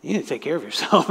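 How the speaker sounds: quick, pointed "need"; brisk reproach; scolding rebuke. Shown as a demonstration. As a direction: tell them off fast.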